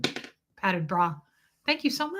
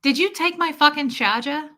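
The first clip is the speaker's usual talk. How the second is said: imitated brash New Yorker, higher pitched; higher-pitched New York accent, dropped R's; 5 semitones higher, 4 dB louder than usual. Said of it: "I live in New York".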